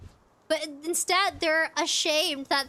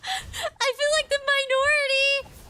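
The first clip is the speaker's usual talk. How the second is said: laughing exclamation; 9 semitones higher than usual. Real, not acted.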